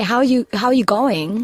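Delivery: a light Aussie "how you going"; Australian accent. Retold or imitated. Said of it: "or you say".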